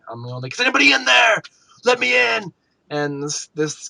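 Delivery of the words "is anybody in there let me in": higher and louder calling out; calling out to a stranger's fort; retold yell. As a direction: shout at a closed house to be let in. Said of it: "I'm yelling".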